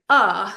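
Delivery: hard glottal uh; glottal stop uh. Shown as a demonstration. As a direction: catch uh hard in the throat. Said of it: "what in vocal terms is a glottal stop".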